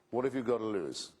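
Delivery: a light, understated salesman's pitch; reasonable Pascal. Retold or imitated. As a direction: put the bet to them like a calm reasoner. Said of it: "religious hucksterism of the cheapest".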